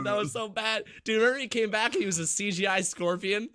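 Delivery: shouting about the CGI scorpion; disgusted shout. Real, not acted. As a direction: howl at how bad it was. Groaning about a bad movie.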